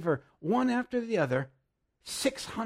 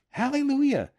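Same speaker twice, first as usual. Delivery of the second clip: high, loud hallelujah; shouted hallelujah; 11 semitones higher, 8 dB louder than usual. Real, not acted. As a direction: burst out in praise. Exultant outburst after laughing.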